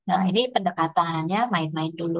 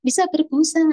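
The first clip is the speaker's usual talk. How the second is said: high, loud delighted squeal; child thrilled by the bubbles, squealing with delight; 9 semitones higher, 5 dB louder than usual. Retold or imitated. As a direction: gush like a thrilled child at the foam. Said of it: "kalau ada gitunya".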